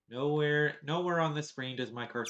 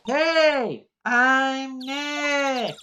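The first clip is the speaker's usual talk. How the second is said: louder, higher call into the mic; louder to be heard; 9 semitones higher, 13 dB louder, much slower than usual. Shown as a demonstration. Testing a noise camera, calling out loudly. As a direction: speak up so the camera hears you. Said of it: "Maybe I'm not saying it loud enough".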